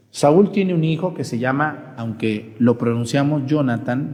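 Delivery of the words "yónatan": "Jonathan" with a Y sound at the start; mispronounced J. Shown as a demonstration. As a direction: say "Jonathan" as YO-na-tan, stressed first. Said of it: "pero está mal dicho".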